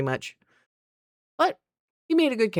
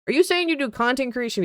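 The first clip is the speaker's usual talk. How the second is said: higher-pitched, doubtful imitation of a salesman; skeptical air quotes; 8 semitones higher than usual. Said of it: "He puts, like, the parentheses fingers up".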